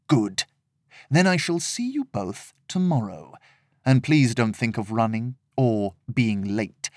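calm, cold warning; calm villain. Acted.

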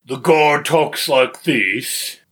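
slow, gruff orc-like guard voice; sharp sentry halt challenge. Shown as a demonstration. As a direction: bark it like a medieval half orc guard. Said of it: "Can I get the guard voice really quick?".

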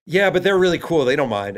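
high, loud, eager protest; eager defence. Retold or imitated. To his wife, eagerly defending the visit. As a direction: defend it brightly to your wife.

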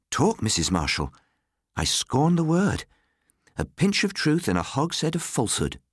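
high, scornful gossip voice; scornful Missus Ryder. A narrator's reading. Gossip dismisses talk to her companion, high and scornful. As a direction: scorn the rumour, pitched well up.

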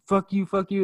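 high-pitched cartoonish cursing; mock mad. Mad lady cursing as security chases her out, mock angry. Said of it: "She's mad, and she's just like".

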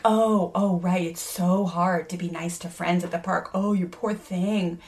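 mock pity, drawn out slowly; dripping sarcasm at the child; sarcastic. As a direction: mom mocking her son's complaint, sarcastic and slow.

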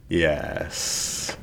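soft breathy whisper; whispered yes. Acted. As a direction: barely breathe it out. Jack's dazed surrender.

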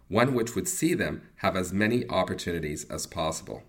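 polished, scripted testimonial delivery; sponsor ad read. Acted. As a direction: read it as a measured client endorsement.

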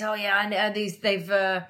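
slow, lightly put-on northern accent. Bin man's veiled threat to police, northern accent. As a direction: imitate a northern small-time gangster, drawing it out. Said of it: "I'm doing that accent 'cause he's northern".

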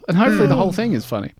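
fast, rushed. Shown as a demonstration. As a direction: rattle it off quickly. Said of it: "That should be my reaction".

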